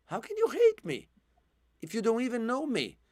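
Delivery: high, pained question; pleading cry. Retold or imitated. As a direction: plead it like the hurt boy. First take, high and full voice.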